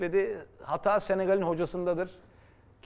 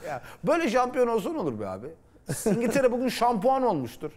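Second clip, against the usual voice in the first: higher, fast mock hopeful fan voice; imitating a naive statistician, higher; 6 semitones higher than usual. Mocking the statisticians' hopes. (daha tiz, hızlı, alaycı istatistikçi taklidi)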